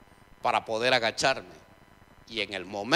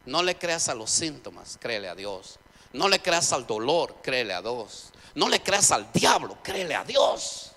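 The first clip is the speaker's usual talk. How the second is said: slow, louder and higher with each line, a preacher working the crowd; preacher's building cry; 4 semitones higher, 7 dB louder, slower than usual. Retold or imitated. Preacher exhorting the sick congregation, a slow, rising shout. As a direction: build it up slowly like a preacher raising his voice. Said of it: "termina el predicador diciendo esto".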